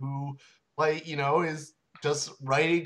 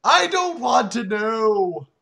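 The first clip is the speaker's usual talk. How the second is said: protest; 5 semitones higher, 6 dB louder, slower than usual. Real, not acted. Protests against graphic story.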